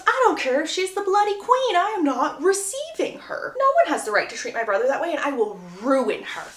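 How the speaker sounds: high indignant start, falling to a threat; lightly acted haughty outrage; angry sister. Sister refusing to receive the countess, acted indignation. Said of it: "Hyacinth is angry".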